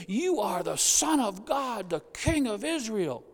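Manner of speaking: mock excitement. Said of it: "start out all excited".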